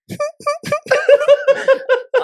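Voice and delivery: high puffing mock laugh; imitated snicker. Storyteller shows friend looking up at him, imitated snickering laugh.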